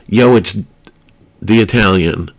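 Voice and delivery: put-on a light wannabe New York tough-guy accent; New York gangster accent. The Italian friend on a late-night call, a light New York gangster accent. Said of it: "New York-ish wannabe gangster accent".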